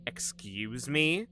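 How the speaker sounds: put-on slow, menacing psycho girl voice; crazy psychopath girl. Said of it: "You do a crazy psychopath girl voice really well".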